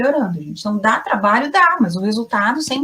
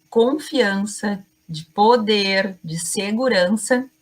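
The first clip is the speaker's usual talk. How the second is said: slow emphatic; slower than usual. Shown as a demonstration. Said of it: "faça pausas".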